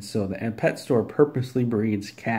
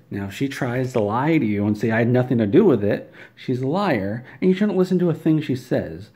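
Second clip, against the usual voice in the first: rising indignation, push it louder; heated warning; 3 semitones higher, 6 dB louder than usual. Acted. Warning listeners she'll lie.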